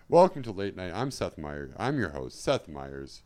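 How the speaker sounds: lightly voiced late-night host; Seth Meyers. Comedian introducing a pretend show, light host impression. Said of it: "That's my Seth Meyers impression".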